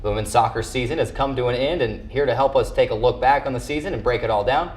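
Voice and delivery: steady, polished anchor read over the recap; sports news read. Acted. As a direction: read it like a weekly sports wrap-up. Anchor opens show segment.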